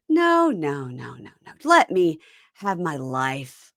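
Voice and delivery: drawn-out, theatrical plea; mock drunken refusal. Imitating a drunken woman rejecting her man, melodramatic. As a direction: stretch it out like a tipsy drama queen.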